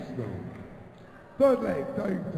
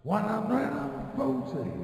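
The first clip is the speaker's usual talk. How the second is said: darts score caller. Real, not acted. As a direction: stretch the number out like a darts caller.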